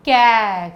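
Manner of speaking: "कै" said loud and clear as "kai"; clear teaching demo. Shown as a demonstration. Teacher models the syllable for kids, loud clear demo. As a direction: sound out "कै" for the class, open and full. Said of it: "बताइए ज़रा".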